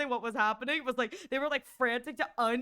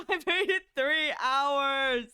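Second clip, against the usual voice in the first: laughing lament; 4 dB louder, slower than usual. Real, not acted.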